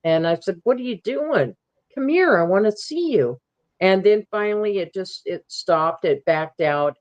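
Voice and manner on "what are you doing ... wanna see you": higher, sing-song gentle coaxing; calm coaxing. Retold or imitated. Retelling her words to the creature, calm and coaxing. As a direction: coax it like a shy animal. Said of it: "I just said real calmly".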